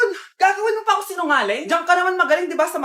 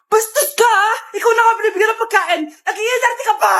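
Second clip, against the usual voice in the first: angry scolding; 5 semitones higher than usual. Acted. Mother scolding the rude girlfriend.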